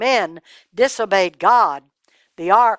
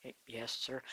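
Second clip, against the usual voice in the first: stammered "Y-, yes" much softer; scared stammer; 10 semitones lower, 24 dB quieter than usual. A narrator's reading. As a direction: hesitate and barely get it out. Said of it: "I can't hear you".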